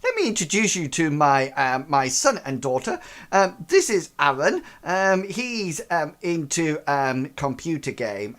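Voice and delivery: the father presenting his son to guests; fussy posh father. Acted. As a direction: introduce the children with strained cheer. GM continues father's voice.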